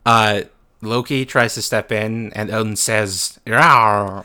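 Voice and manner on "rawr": playful monster growl. Retold or imitated. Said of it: "He just roars at him".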